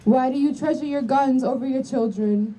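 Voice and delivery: usual speaking voice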